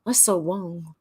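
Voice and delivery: lightly imitated Chinese accent on "Wong"; mock Chinese accent. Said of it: "how you pronounce wrong in a Chinese accent".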